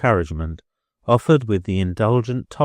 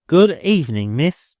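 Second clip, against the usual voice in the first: higher, louder chilly-sweet goodbye; sweet but aloof farewell; affectionate yet distant; 8 semitones higher, 6 dB louder than usual. A narrator's reading. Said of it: "at once affectionately and distantly".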